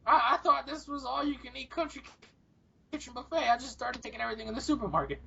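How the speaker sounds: lightly voiced muddled old man; feigned bewildered excuse; old and confused. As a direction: play innocent like a senile geezer. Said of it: "pretend that I'm fucking old and confused".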